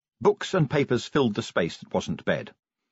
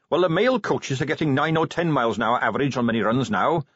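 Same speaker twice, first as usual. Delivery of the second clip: Carrot; 3 semitones higher than usual. Acted. Carrot voiced.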